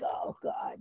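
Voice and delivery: breathless whisper of dread; whispered dismay. Retold or imitated. Recognized at the meeting, whispering to herself in dismay. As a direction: mutter it under your breath, caught out. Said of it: "I'm like".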